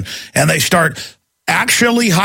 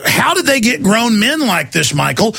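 incredulous outburst; 4 semitones higher than usual. Retold or imitated. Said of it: "you're like".

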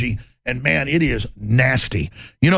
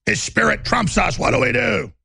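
higher, slow, panicky villain; mock panic; 4 semitones higher than usual. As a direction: fret like cornered rats. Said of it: "they're all just panicking".

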